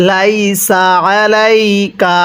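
slow, carefully drawn Quran reading; slow recitation. Shown as a demonstration. Teacher showing students the joined reading, slowly recited. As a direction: recite each syllable slowly. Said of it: "তাহলে কিভাবে পড়ব?".

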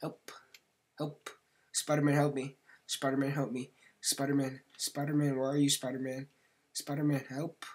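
high, loud hammed-up cries for rescue; mock damsel calling Spider-Man. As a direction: call for Spider-Man like a movie victim. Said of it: "like that scene from Spider-Man".

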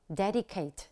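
dedicate stressed on DED, falling away; DED-i-cate, weight on the start of dedicate; first-syllable stress. Shown as a demonstration. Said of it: "nhấn ở âm tiết thứ nhất".

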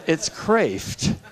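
"Kreeft" said like KRAYFT; joking name pronunciation. Shown as a demonstration. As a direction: say "Kreeft" to match the NAY-ther punchline. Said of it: "how to pronounce my name".

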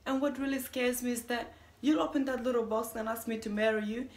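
building to a high, loud outburst; alarmed dread. Acted. Dreading saying yes to a proposal, rising alarm. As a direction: let the worry climb to an exclaimed last word.

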